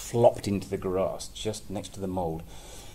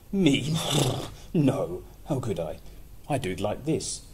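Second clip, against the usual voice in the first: horse voice; 3 semitones higher, 3 dB louder than usual. Acted. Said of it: "he asked the horse".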